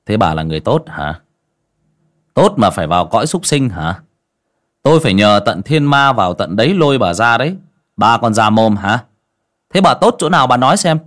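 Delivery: shaman mocking the ghost's claim to be good; scolding interrogation. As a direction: grill her harder each line.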